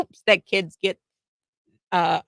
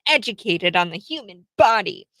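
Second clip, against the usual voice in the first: mock indignant; 2 semitones higher, 3 dB louder than usual. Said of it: "So she's all upset".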